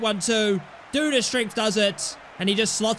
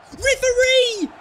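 high, loud shout for the referee; shout at the ref; 12 semitones higher, 5 dB louder, slower than usual. Real, not acted. Gamer yelling at the referee on screen, loud shout. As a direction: yell it out in protest.

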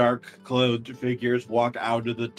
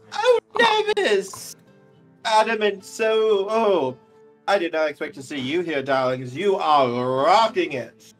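gushing socialite; 4 semitones higher, 4 dB louder than usual. Acted. In-character gushing greeting.

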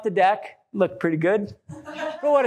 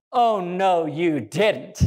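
startled "Oh, no, you didn't"; mock surprise after a gasp; surprised sass; 4 semitones lower, much slower than usual. Shown as a demonstration. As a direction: react in shock. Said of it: "We're all able to".

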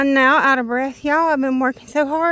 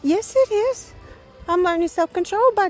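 high, defiant comeback; high-pitched yes it is; sassy retort; 7 semitones higher than usual. Real, not acted. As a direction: talk back to the therapist. Talking back to her therapist.

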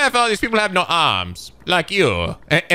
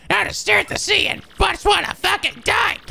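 mock despairing sailor; 13 semitones higher than usual. Depressed sailor NPC read.

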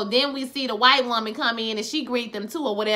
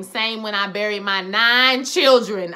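put-on slow, louder on the nine children; emphatic retelling; 4 dB louder, slower than usual. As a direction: draw out the grim reveal with weight. Retold grim reveal by a farmer.

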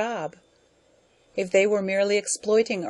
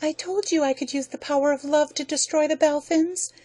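much higher, sugary gloating lady; sweet scheming wife; 9 semitones higher than usual. Acted. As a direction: purr the reveal over him. Corisande boasts to relatives.

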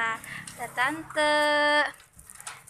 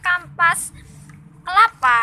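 excited; 3 semitones higher, 9 dB louder than usual. Real, not acted. Mishears the word in surprise.

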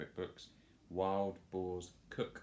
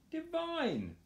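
burped. Acted. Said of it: "burped Horace".

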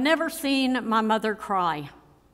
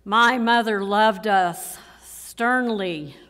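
stern emphasis; 5 dB louder than usual. Real, not acted. Eulogy voices the word sternly.

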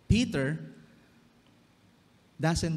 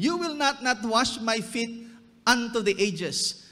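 emphatic refusal; 6 semitones higher than usual. Acted. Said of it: "Yan yung literal na translation".

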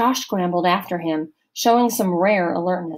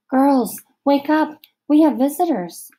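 raised, higher call to wake the cabin; 7 semitones higher, 6 dB louder than usual. A narrator's reading. Allison calling out to wake the girls, loud. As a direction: rouse the room, louder and higher.

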